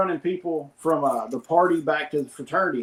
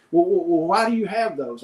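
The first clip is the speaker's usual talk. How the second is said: mildly flustered, stuttering into the question; retold freak-out. Trooper questioning driver about shotguns, mock flustered. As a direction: imitate a thrown trooper stumbling over his opening. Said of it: "freaking out about that".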